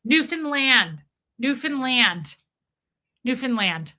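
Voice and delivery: Newfoundland as NEW-fin-land, repeated; Canadian Newfoundland pronunciation. Shown as a demonstration. Host proving she learned it, NEW-fin-land for Newfoundland. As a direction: drill Newfoundland with stressed NEW and reduced fin. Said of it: "I have a Canadian here".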